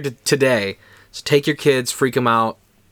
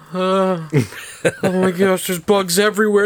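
high, nervous laughing panic; half-laughing mock terror; high voice of a scared kid who wants out; panicked kid; 9 semitones higher than usual. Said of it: "And I was like".

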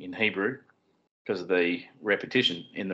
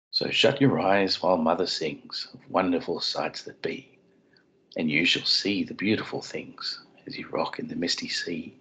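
a father's gentle bedtime reading; bedtime story voice. Pretend. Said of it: "dad putting the kids to bed voice".

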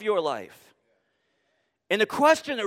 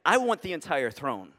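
firm Jesus voice; 3 dB louder than usual. Retold or imitated. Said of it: "And Jesus says".

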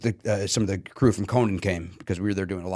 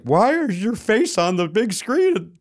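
incredulous; 10 semitones higher, slower than usual. Retold or imitated. Friends messaging in disbelief.

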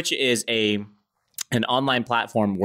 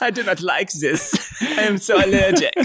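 mock allergic whine; 7 semitones higher than usual.

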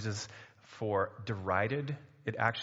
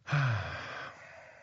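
long audible exhale; heavy sigh. Acted. Acting out the plot of shame.

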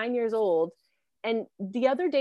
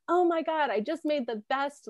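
higher-pitched imitation of an excited acquaintance; mock gushing; 6 semitones higher than usual. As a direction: gush lightly, as if sharing big news. Acted gushing acquaintance sharing a dish.

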